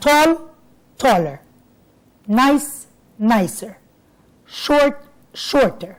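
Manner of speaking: tall then taller, nice then nicer, each pair set apart; slow teacher's drill of word pairs; teaching word pairs. Shown as a demonstration. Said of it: "هتزود اي ار".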